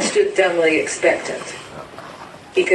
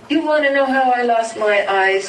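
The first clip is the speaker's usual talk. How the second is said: crying out; 6 semitones higher than usual. A narrator's reading. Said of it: "cried the man".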